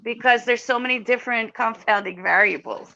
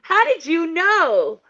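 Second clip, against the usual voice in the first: incredulous; 5 semitones higher, slower than usual. Retold or imitated. Acted incredulous question to the phone.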